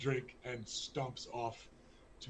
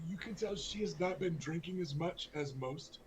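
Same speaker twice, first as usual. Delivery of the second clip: ordinary talk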